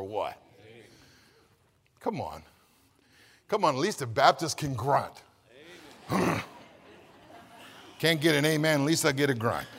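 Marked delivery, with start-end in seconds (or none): none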